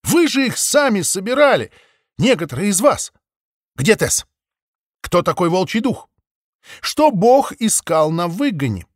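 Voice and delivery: exclaiming. A narrator's reading. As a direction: fire off questions, pleading. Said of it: "воскликнула она".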